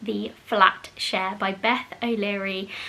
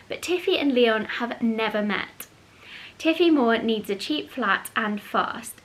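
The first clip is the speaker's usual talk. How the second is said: reading the blurb. Acted. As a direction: read the back cover aloud. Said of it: "So the back page says".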